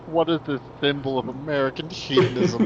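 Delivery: laughing mock question. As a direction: giggle through a pretend question. Joking about the confused Taliban.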